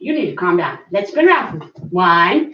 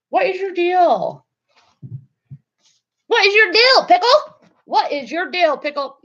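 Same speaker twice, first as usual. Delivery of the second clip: high sing-song scolding; dog talk; 9 semitones higher than usual. Real, not acted. Owner coos at her restless dog, high and sing-song. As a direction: coo at the dog, rising up.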